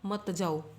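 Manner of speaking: मत जाओ said as one unit after a break; मत जाओ grouped. Shown as a demonstration. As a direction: keep मत joined to जाओ, falling. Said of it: "रुको के बाद कॉमा होता". ('मत जाओ' एक साथ)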